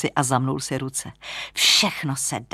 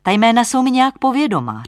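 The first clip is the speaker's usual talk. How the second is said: higher, louder, eager puzzlement; puzzled young lodger; 8 semitones higher, 9 dB louder, faster than usual. Acted. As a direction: voice an intrigued lodger, pitched up. (zaujatý mladík, výš a hlasitěji)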